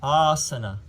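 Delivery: asana said ah-sah-nah; long a. Shown as a demonstration. Yoga teacher modeling the correct asana. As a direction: open ah vowels in asana. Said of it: "It's not asana because".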